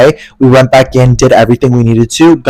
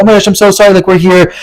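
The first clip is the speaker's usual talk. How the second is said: pleading; 6 semitones higher than usual. Retold or imitated. Begging the gate worker.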